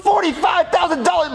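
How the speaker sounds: high, incredulous exclamation; shocked disbelief. Acted. Mario hears the bail amount, high shocked disbelief. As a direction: repeat the figure in disbelief.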